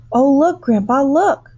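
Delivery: put-on high, loud eager child's cry; excited cry. A narrator's reading. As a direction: call out thrilled to grandpa. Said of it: "cried Charlie".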